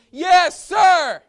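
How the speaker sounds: high, loud soldier's shout; shouted yes sir. Shown as a demonstration. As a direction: bark it out like a drill recruit. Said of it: "loud and proud".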